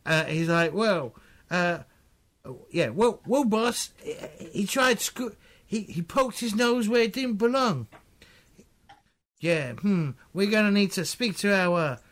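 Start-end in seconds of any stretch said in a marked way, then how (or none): 0.7-7.9 put-on drifting Southern accent. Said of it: "They might end up Cockney".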